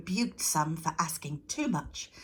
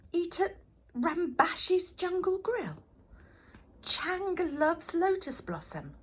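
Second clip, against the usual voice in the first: reading out; 12 semitones higher, 4 dB louder than usual. Acted. Goddess reads slogans aloud.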